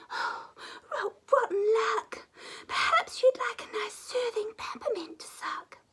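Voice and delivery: put-on high, whispery child's voice; gentle little girl. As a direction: soothe him like a kind little girl. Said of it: "She said".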